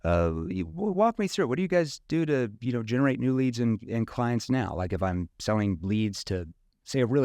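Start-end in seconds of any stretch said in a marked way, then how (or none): 0.5-4.7 light curious sales voice. Shown as a demonstration. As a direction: ask it like you truly want to know. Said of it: "curious tone".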